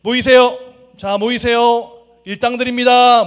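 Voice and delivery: loud, high call to gather the workers. Acted. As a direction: shout it across the marketplace. Boss calling day laborers.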